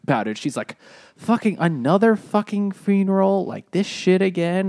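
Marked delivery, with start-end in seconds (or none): 1.2-4.7 high, loud, fed-up outburst, slowing at the end; mock angry rant. Midori fed up at yet another funeral, mock angry rant. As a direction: vent like she's had it with funerals. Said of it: "she's just angry about".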